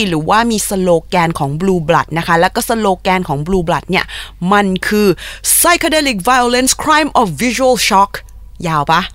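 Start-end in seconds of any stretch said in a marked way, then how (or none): 5.6-8.1 slow, deliberate English slogan; very slow dramatic slogan delivery; slogan read slowly. Shown as a demonstration. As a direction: spell out the band slogan word by word, slowly. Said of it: "ย้ำอีกทีนะ".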